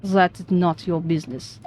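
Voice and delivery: put-on curt Russian accent. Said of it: "I'm so bad at this Russian accent".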